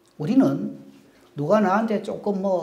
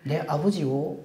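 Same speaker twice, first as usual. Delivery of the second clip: tender address; 5 dB quieter, slower than usual. Acted. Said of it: "이 말입니다".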